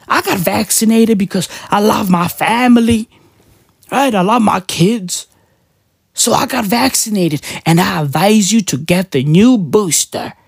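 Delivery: lightly voiced singer, earnest PSA read; imitating a singer. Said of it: "He's out here telling people".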